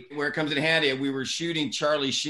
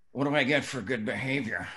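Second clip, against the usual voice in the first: Charlie Sheen voice; 4 semitones lower, 3 dB quieter than usual. Retold or imitated. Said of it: "I'm doing his voice".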